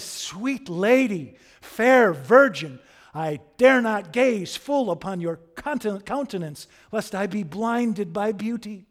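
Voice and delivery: high, loud declamation in grand, florid phrases; slow, swelling courtly adoration; Quixote. Acted. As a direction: proclaim it like a lovestruck knight from a bad romance. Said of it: "Quixote talks like that".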